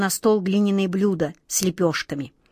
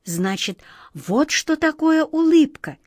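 put-on little girl voice; 8 semitones higher than usual. A narrator's reading. Child character voice.

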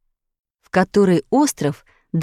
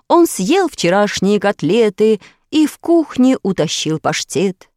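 expressive recitation; 2 semitones higher than usual. A narrator's reading. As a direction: declaim with expression, proudly. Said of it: "Читал он красиво, с выражением".

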